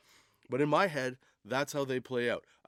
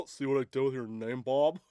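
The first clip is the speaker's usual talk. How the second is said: jowly hippo making a joke; fat guy hippo; 4 dB louder than usual. Acted. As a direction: talk like a hefty, chuckling hippo. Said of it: "a fat guy voice".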